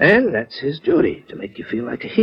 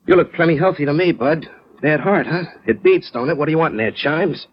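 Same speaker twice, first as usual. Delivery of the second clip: sneering tough guy; 5 semitones higher than usual. Retold or imitated. Joe mimics strangers sneering at his four F, jeering and higher. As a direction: put on the jeering voice of a man doubting the heart. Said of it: "what they're thinking goes like this".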